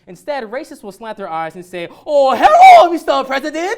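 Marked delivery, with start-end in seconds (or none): 2.1-3.8 high, much louder mock Asian accent; hammed-up mock Asian accent greeting; a loud, over-the-top mock Asian accent. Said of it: "after that uncomfortable accent I had to do".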